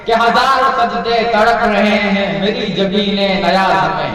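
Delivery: melodic Urdu poetry recital, drawn out; ghazal recitation. Acted. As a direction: chant each verse with lilting tarannum. Recites Iqbal ghazal at mushaira.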